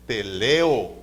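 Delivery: "teleo" stressed on the middle LE, falling on the O; wrong stress. Shown as a demonstration. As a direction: say "teleo" as te-LE-o, the mistaken way. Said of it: "no es teleo". ("teleo" con acento en la LE)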